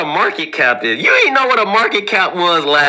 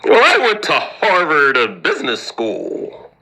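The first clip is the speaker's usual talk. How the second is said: smug grad; 3 semitones lower than usual. Retold or imitated. Voicing a smug Harvard grad.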